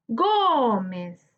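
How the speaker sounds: "Gómez" drawn out as gó-mez; syllable by syllable. Shown as a demonstration. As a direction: stretch "Gómez" slowly over its two syllables. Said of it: "es separar por sílaba". ("Gómez" separado lentamente en dos sílabas)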